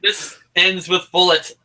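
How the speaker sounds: chuckling through the words; laughing. Real, not acted. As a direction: laugh while saying it. Mocking the misquote.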